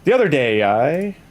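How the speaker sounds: put-on swooping rural Canadian accent; hammed-up hick Canadian accent; Letterkenny accent. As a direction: put on a small-town Canadian lilt. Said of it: "you could do Letterkenny".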